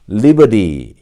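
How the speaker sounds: American "리버리", T turned to a flap; American pronunciation. Shown as a demonstration. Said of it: "미국식 발음이죠".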